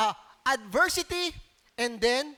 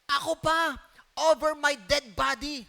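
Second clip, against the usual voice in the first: quoting Peter. Retold or imitated. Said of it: "Sabi ni Peter".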